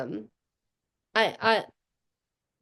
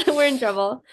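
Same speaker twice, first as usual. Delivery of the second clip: laughing it out, a bit louder; 4 semitones higher, 4 dB louder than usual. Real, not acted. To a co-host, laughing about the new guys. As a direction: say it through a real laugh.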